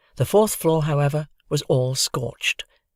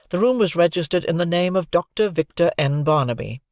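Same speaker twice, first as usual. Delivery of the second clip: news report read. A narrator's reading. Narrator voices TV news reporter.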